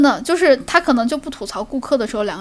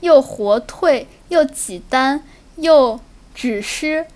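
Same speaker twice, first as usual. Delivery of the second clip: slow, careful Shaanxi dialect; Shaanxi accent; slower than usual. Shown as a demonstration. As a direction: speak Shaanxi slowly, word by word. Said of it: "我也不知道这是哪个地方口音".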